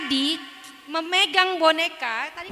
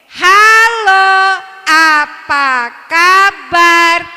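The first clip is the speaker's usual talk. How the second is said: slow puppet greeting; 3 semitones higher, 12 dB louder, much slower than usual. Shown as a demonstration. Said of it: "Kita coba angkat tangannya".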